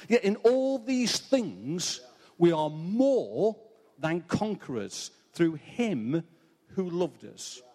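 solemn, measured Bible reading; scripture reading. Acted. Preacher reading Romans eight to the congregation, solemn and measured.

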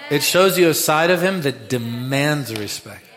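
loud proclamation; loud preaching. Acted. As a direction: drive it home. Preaching, then repeated softly.

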